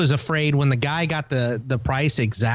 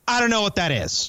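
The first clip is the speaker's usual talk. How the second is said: imitating indignant ignorance, higher pitch; mock indignant; 5 semitones higher than usual. Host mimicking co-host who hasn't heard of something, indignant. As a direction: mimic someone huffily dismissing a question. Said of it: "like such an indignant a-hole".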